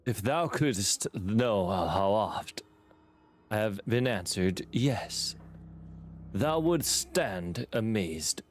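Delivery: slow, drawn-out mock olde-English delivery; imitating the game voice. Streamer copying the game's mysterious figure, slow mock archaic. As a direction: stretch every thou out, half-joking. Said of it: "All right, let me try".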